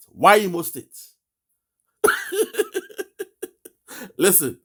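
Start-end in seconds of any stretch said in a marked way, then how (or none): 2.0-3.4 a sharp high burst of laughter. Real, not acted. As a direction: laugh out in disbelief. Laughing at the caller.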